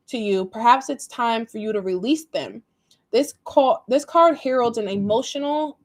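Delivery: emphatic, measured read-aloud; reading a horoscope aloud. Acted. Reader passing written advice to Virgo, reading aloud.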